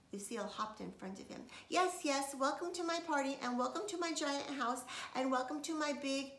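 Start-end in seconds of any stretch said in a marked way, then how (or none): 1.7-6.3 high, loud bragging welcome; loud boastful little girl; showing off. A narrator's reading. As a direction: show off the house proudly. Lucille showing off.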